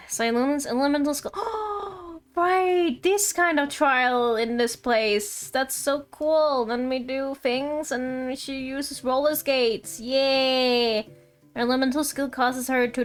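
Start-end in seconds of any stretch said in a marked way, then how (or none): 1.4-2.3 high drawn-out gasp; amazed gasp. Real, not acted. Player seeing the elemental skill, amazed gasp. 2.4-11.0 slow, drawn-out delighted gushing; excited delight. Real, not acted. Player sees she uses roller skates, excited. Excited reaction to character's skill.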